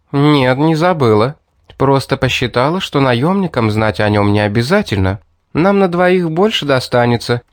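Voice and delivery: a hint of a sly girl persuading; girl coaxing him down from the ledge, lightly voiced; Mary voiced lightly.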